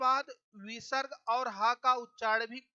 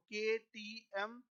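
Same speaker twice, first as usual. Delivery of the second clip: drawn out mnemonic; 4 dB quieter, much slower than usual. Shown as a demonstration. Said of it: "मैंने आपको एक word बताया था".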